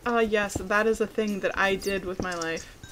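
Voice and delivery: lightly hammed-up wistful musing; a hint of mock nostalgia; mock pompous reflection. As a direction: play it as a grand sigh over your life. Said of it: "and be like".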